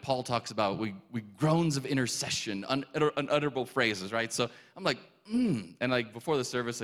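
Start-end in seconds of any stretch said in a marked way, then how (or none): 5.3-5.7 brief imitated groan; a milder closed-mouth moan. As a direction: groan through closed lips. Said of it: "I keep groaning".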